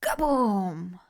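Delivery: spoken "Kaboom" like a blast; explosion sound effect. Retold or imitated. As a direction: voice the laptop blowing up. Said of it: "my baby boy would just go".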